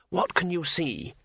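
a hint of a curious tourist, drawn out; lightly voiced tourist. Tourist asks the dragon what it sees, lightly voiced curious figure.

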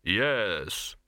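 Death. A narrator's reading. Death answers the dog.

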